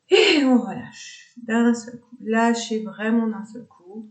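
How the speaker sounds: high, loud onset falling away; sudden release cue. Shown as a demonstration. Yoga teacher cueing students to drop the tension, sudden release. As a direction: let go all at once on a falling tune.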